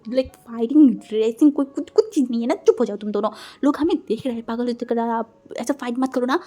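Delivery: loud, urgent plea to stop a fight; shouting to stop. Acted. Yanli yelling at two friends arguing at a wedding, shouting. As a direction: raise your voice over the quarrel. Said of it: "चिल्ला के बोला".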